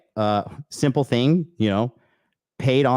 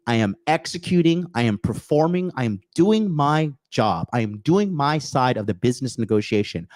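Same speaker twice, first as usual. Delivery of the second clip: rising, higher, more forceful self-assertion; building indignation; 3 semitones higher than usual. Retold or imitated. Underpaid friend confronting his boss, building firm indignation. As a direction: lay out your case, getting more worked up each line. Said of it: "he'd be like".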